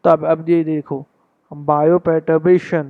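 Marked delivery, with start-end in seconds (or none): 1.5-2.8 bioperturbation spelled out very slowly, bio-per-tur-bation; broken into parts. Shown as a demonstration. Teacher shows students how he practised the word. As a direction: chunk bioperturbation syllable by syllable. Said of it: "इसको अलग कर दिया और इसको अलग कर दिया".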